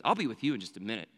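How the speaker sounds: low, quick, curt brush-off; lightly voiced no-nonsense policeman; stern officer. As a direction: imitate a cop dismissing someone sternly. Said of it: "with a really stern look".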